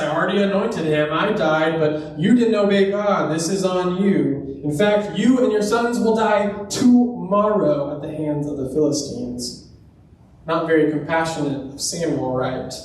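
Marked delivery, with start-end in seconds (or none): 0.0-9.6 lightly acted irritated scolding; kind of sore. Samuel answering Saul's anguish with no comfort, mildly sore. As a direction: tell them off with a mock exasperated edge. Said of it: "he just says this kind of sore".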